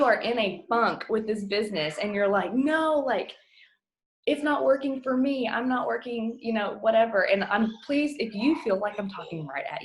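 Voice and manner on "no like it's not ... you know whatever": mock whiny complaint. Imitating a discouraged team member.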